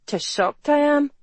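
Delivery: high-pitched mock shock; acidly sarcastic market woman; acid sarcasm. A narrator's reading. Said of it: "Maggie said acidly".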